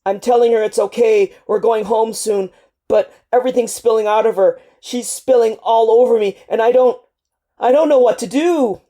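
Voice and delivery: a soldier breaking down as he relives it; grief-stricken soldier pouring out his trauma to El, crying; strangled crying. Acted. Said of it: "Your last words are a strangled cry".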